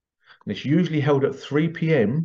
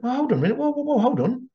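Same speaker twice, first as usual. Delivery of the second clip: high, eager "hold on"; excited interruption; 13 semitones higher, faster than usual. Retold or imitated. Workshop lady cutting in when she recognizes the same house, high and eager. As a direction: cut in, thrilled, stopping the other woman.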